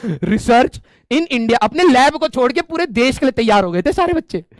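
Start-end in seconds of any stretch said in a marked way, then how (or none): 0.0-1.5 very slow, drawn-out begging; mock pleading. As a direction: drag out the desperate promise. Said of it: "बच्चों ने कहा कि". (गिड़गिड़ाते बच्चों की धीमी नकल)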